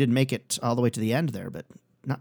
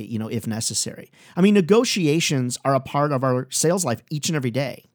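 ordinary talk

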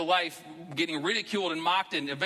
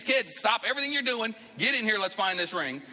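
hammed-up parent hollering for help; mock yell at the kids; 8 semitones higher than usual. Parent calls the kids in to hunt the lost ring, mock yell. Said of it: "We'd be yelling at the kids".

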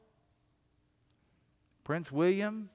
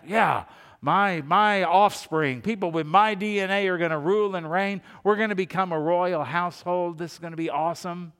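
super proud father; 3 semitones higher, 5 dB louder than usual. Retold or imitated. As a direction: puff up like a proud dad. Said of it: "super proud of that".

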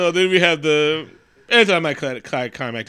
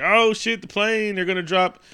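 mock alarm; 4 semitones higher than usual. Retold alarm about the plane.

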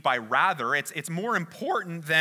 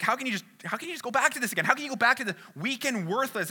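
fast, higher incredulous questioning; exasperated Paul; 5 semitones higher, much faster than usual. Retold or imitated. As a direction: rattle it off in disbelief, a touch acted. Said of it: "He's like".

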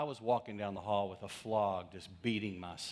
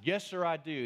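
firm, raised and louder, puffing up a chest; mustered courage; 7 semitones higher, 5 dB louder than usual. Retold or imitated. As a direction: say it like a young man mustering courage. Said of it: "I tried to muster it up".

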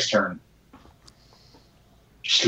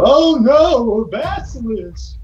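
fake panic; 12 semitones higher, slower than usual. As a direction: gasp it out like a startled villager. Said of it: "make a performance check as you go".

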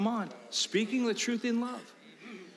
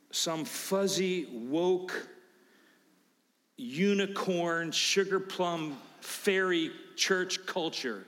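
mock sweetness; much slower than usual. Real, not acted. Mocking soft church culture.

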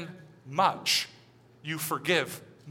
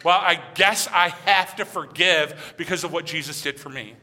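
begrudging forgiveness. Retold or imitated. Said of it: "this isn't meant to be a begrudge game".

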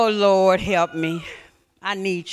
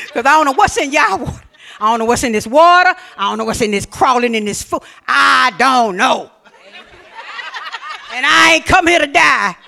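louder, laughing half-panicked rant; laughing complaint; 4 dB louder than usual. Retold or imitated. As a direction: rant while laughing at yourself. Retold fearful complaint, laughing.

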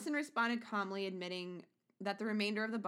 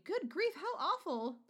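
feigned shock; 8 semitones higher than usual. Acted. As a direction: gasp out mock horror. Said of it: "Nelson feigned shock and bewilderment".

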